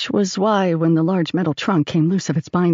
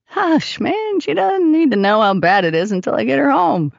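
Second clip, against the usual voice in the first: raised, animated comeback to a mate; bantering soldier; 7 semitones higher, 3 dB louder than usual. A narrator's reading. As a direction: shush him in high-pitched banter. Davy joking back at bunkmate.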